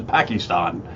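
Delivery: Pakistan with broad "ah" vowels; Obama's pronunciation. Retold or imitated. Host recalling the Obama years, Pakistan said as "PAH-kee-STAHN". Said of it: "He kept saying it that way".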